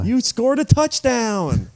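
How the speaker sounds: hammed-up excited buddy cheering. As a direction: shout it like he just won the game. Hunters cheering Elliot on.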